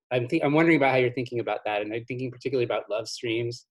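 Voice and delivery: winded, out of breath after a workout. Real, not acted. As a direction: talk while out of breath. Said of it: "Sorry, I was working out".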